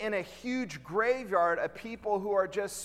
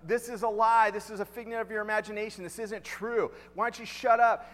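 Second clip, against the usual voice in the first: higher-pitched retold rant; mock freaking out; 4 semitones higher than usual. Person refusing talk about Jesus, mock freak-out. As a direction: imitate someone flustered, protesting in a rush of objections. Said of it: "they start freaking out".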